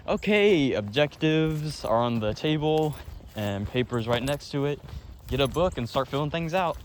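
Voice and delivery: mock the lazy teacher's instructions; imitating teacher. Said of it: "he'll be like".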